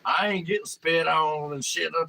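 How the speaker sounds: high, loud furious yelling; scared and angry. Retold or imitated. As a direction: yell him off the tier. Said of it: "It's like".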